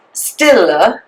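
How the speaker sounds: Stille said in Norwegian, two syllables; Norwegian pronunciation. Shown as a demonstration.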